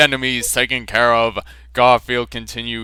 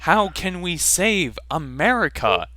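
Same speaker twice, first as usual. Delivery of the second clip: mock hopeless plea; 6 semitones higher than usual. John Arbuckle hammily begs Garfield to save America. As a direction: plead like all is lost, hammed-up. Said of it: "with hopelessness".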